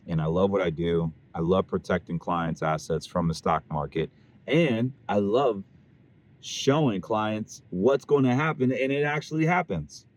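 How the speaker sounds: talking with gum in mouth; words around a piece of chewing gum. Real, not acted. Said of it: "I have gum in my mouth".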